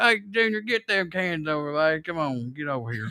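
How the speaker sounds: softly played West Virginia country voice; country accent. Joking as a country man calling Junior, mock country accent. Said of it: "like that country accent".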